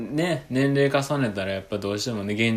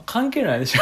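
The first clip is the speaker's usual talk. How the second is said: laughing; 11 semitones higher, 3 dB louder than usual. Real, not acted. Joking about the age gap.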